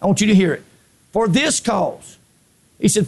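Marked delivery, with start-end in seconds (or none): 1.1-2.2 measured, very slow scripture reading; slow and deliberate. Real, not acted. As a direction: read it slowly, drawing out each word. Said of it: "I'm gonna read it slow".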